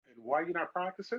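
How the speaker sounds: a hint of a prim old lady scold. Player imitating the old lady who scolds him, mock high voice.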